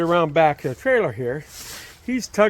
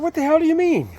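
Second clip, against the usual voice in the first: retold angry shout; 13 semitones higher, 4 dB louder, faster than usual.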